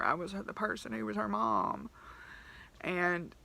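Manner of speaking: a real, understated welling-up of grief for the dog; holding back tears while talking; emotional, near tears. Real, not acted. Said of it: "Sorry about my little emotional outburst".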